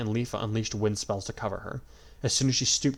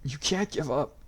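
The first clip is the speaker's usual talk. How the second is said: scream; 6 semitones higher, slower than usual. A narrator's reading. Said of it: "Yui screamed".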